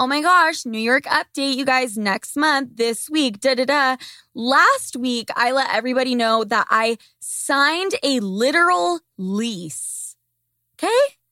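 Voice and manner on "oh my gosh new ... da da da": ordinary talk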